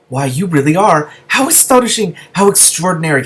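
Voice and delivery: astonished. Acted. Lizard astonished.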